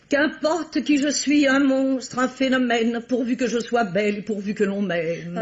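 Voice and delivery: theatrical poetry reading, savouring each line; declaiming her poem. Acted. Aging actress recites her poem to the young pianist, theatrical. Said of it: "C'est un extrait de mon troisième recueil".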